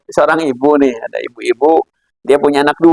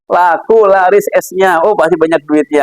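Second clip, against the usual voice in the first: raised, delighted exclaiming, easing as it goes; happy mother; 4 semitones higher than usual. Acted. Mother cheers the hot season for her ice-selling child, acted delight. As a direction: rejoice over the child's good sales, acted. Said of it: "kan seneng".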